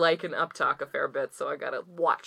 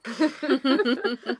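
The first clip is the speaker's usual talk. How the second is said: very slow, creaky drawn-out fry; vocal fry; 8 semitones higher, much slower than usual. Acted. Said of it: "I just love doing vocal fry".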